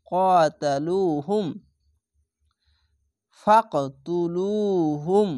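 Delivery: ইউকাতিলুকুম recited slowly in a chanting Quran voice; recitation voice. Shown as a demonstration. Teacher to students, reciting slowly for practice. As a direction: chant ইউকাতিলুকুম with long vowels. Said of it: "এখানে জিম আছে".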